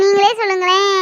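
crying as she asks; tearful plea. Acted. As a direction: voice breaking with worry. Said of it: "ஏன் அழுற?".

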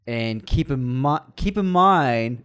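slow, rising Tommy Wiseau drawl; Tommy Wiseau impression. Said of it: "it's Tommy Wiseau".

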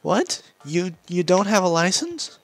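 夸张的动漫配音; overacted anime dub. Voicing game cutscene dialogue.

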